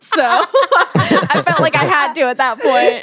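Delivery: laughing while talking. Real, not acted. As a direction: giggle through the words. Laughing through whipped cream story.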